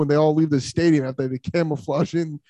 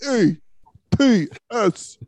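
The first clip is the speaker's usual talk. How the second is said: mock dim Jets fan; 3 semitones higher than usual. Mocking Jets fans to podcast friends, a light dim-fan voice. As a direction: tease like a dumb fan spelling the chant. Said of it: "you've been taking some acting lessons".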